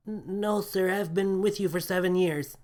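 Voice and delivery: hesitant, embarrassed reply; stammering crewman. A narrator's reading. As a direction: crewman telling captain how long he's served.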